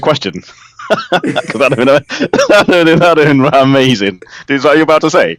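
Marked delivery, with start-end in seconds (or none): 0.4-4.2 giggling through the words, pitch jumping up; laughing. Real, not acted. Laughing while imagining the answer.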